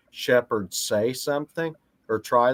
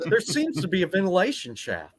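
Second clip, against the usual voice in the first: Metal Gear quote; 6 semitones higher than usual. Retold or imitated. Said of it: "doing a".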